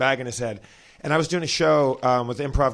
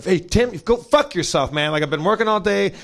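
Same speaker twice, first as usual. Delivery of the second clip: fed-up retort; 3 semitones higher, 5 dB louder than usual. Retold or imitated. Fed-up Murray curses supposed prank caller.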